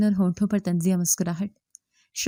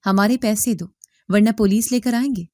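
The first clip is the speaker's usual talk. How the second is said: shouting demand; 3 dB louder than usual. Acted. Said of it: "شور مچانے لگے".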